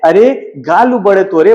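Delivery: laughing scold. Acted. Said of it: "हंसकर रानी कहती है".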